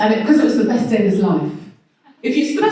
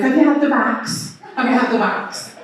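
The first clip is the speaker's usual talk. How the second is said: bad American accent; 3 semitones higher than usual. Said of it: "I'm no good at doing an American accent".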